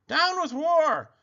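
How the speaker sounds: very high hooted slogan; high-pitched dinosaur protest chant; hooting. A narrator's reading. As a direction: hoot it way up high. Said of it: "And he hooted".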